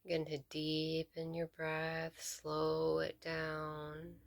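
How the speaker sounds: measured meditation guide with long pauses between phrases; guided meditation. Real, not acted. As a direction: lead them gently into stillness, leaving space to breathe.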